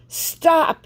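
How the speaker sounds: high, loud furious stop; an angry chasing shout; yelling. A narrator's reading. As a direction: bellow after a runaway. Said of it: "he yelled at May May".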